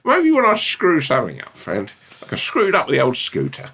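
very high, squeaky mock impression; mock him in a tiny squeaky voice. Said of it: "how you did a little clench of your fist".

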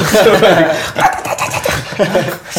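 high, rapid chattering imitation through laughter; silly scurrying noise. Player showing a little gnome scurrying, high chattering noise.

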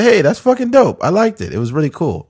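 retold excited praise. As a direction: gush about how cool it was. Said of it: "I said".

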